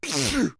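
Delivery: short high-pitched acted sneeze; small squeaky story sneeze. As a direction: let out a quick mock sneeze. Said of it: "There was a sneeze".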